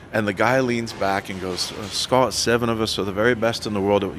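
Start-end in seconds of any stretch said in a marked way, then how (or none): 1.7-4.2 imitating an Irishman, playful put-on accent. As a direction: do your best Irish roadie accent. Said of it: "you like my Irish accent?".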